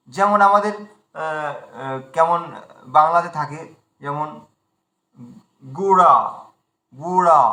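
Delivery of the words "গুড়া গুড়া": গুড়া with a flapped Bengali ড়, not ঢ. Shown as a demonstration. Teacher contrasting the Bengali গুড়া with Sanskrit sound. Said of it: "এভাবে আমরা উচ্চারণ করি".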